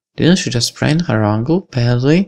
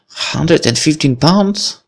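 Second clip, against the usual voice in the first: drawn-out, high disbelieving question; taken aback; 6 semitones higher, slower than usual. Real, not acted. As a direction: stretch it out in rising disbelief.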